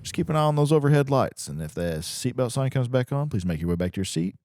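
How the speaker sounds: lightly voiced captain on the intercom; airline pilot voice. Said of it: "You sound like a, uh, a pilot".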